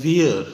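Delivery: "wear" said like the English word wear, one syllable, not "veer"; clearly modelled "wear" for we're; teaching pronunciation. Shown as a demonstration. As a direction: say "wear" as a single clear "wair" sound. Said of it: "वीर नहीं बोलते इसको".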